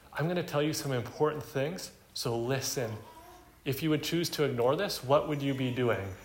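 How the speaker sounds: emphatic appeal. Retold or imitated. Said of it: "emphatically calling him to heed wisdom".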